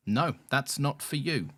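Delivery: slow, mildly creepy refusal. Retold or imitated. House viewing guide refusing the loft, slightly creepy. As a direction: imitate a creepy brush-off. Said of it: "she very creepily and did not elaborate".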